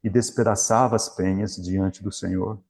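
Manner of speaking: measured Bible reading to the congregation; scripture reading. Acted. Preacher reading the Elijah passage to the church, solemn reading. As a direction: read the passage deliberately, pausing on each phrase. Reads 1 Kings scripture aloud.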